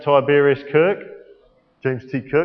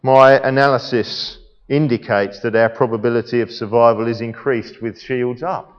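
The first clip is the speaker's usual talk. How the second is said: lightly voiced logical officer, lower than usual; Spock; 5 semitones lower than usual. Science officer reporting survival odds, lightly acted in a lower, measured voice. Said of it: "Spock would be saying".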